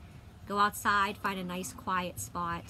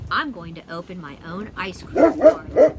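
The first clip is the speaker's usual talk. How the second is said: put-on proud old man; 14 dB louder than usual. Old man announcing dream.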